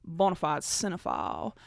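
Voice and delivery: light Southern drawl on Bonafide cinephile. Shown as a demonstration. Vlogger trying a Southern drawl on her name, lightly. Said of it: "I wanna say it with a southern drawl".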